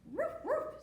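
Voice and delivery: high, loud little woofs; mock barking. A narrator's reading. Storyteller as the rooster who caught the bark, high barking. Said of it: "he caught the bark".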